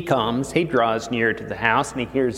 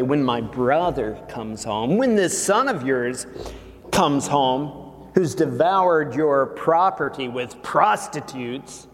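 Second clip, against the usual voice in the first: aggrieved son, pitched up; resentful complaint; 3 semitones higher than usual. Acted. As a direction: protest the unfairness. Son's angry complaint continues.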